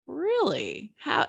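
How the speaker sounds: a startled, incredulous question; surprised. Retold or imitated.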